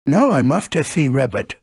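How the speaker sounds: lightly voiced bouncy tiger; Tigger. Tiger greets his friend on a bouncing day, lightly voiced character. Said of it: "said Tigger".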